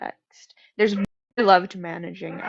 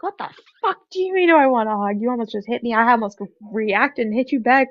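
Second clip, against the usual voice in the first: retold outburst; 3 semitones higher, 4 dB louder, faster than usual. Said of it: "I go off on him".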